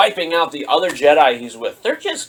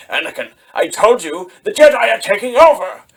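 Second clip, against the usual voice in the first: much higher, louder desperate cry; a cornered old man calling for help; panicked Palpatine; 7 semitones higher, 6 dB louder than usual. Retold or imitated. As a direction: Palpatine on the ground calls to Anakin, high and urgent. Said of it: "he's just like".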